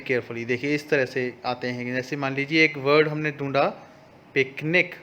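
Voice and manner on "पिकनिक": पिकनिक said clearly as pik-nik; say the word. Shown as a demonstration. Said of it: "This is the spelling of the word". (पिकनिक साफ़-साफ़ बोलकर)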